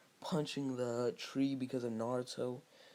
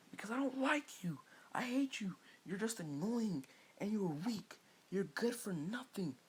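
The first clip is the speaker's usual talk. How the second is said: cold insult; 9 semitones higher than usual. Retold or imitated. Sasuke insults Sakura.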